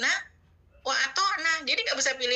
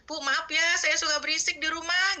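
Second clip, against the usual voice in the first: apologetic; 5 semitones higher than usual. Retold or imitated. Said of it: "Saya suka minta maaf sama tetangga".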